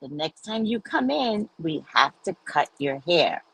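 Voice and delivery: gentle coaxing. Retold or imitated. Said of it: "She used to say".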